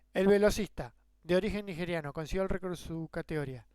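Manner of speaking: "El velocista", then a clear pause before "de origen nigeriano"; pause for the clarification. Shown as a demonstration. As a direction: set off "de origen nigeriano" with a break after "velocista". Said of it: "tengo que hacer una pausa".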